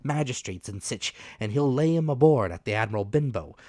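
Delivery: put-on rough, loud old pirate captain; hoarse pirate captain voice; old sea captain. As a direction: growl it out like a dying buccaneer. Captain's dying rant.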